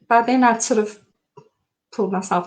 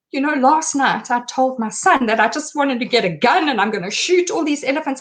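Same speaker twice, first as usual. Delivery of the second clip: frantic babbling; 3 semitones higher than usual. Retold or imitated. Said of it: "I'd gone mad".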